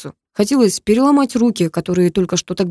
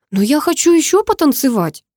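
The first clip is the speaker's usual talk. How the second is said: put-on a girl's voice, higher, a touch embarrassed; 7 semitones higher, 3 dB louder than usual. A narrator's reading. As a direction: lightly voice the shy girl wanting to keep dancing. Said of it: "смутилась Карина". (смущённо, голосом девушки, повыше)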